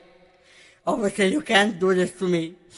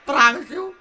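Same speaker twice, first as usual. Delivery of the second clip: pleading; 2 semitones higher than usual. Acted. Pleading promise.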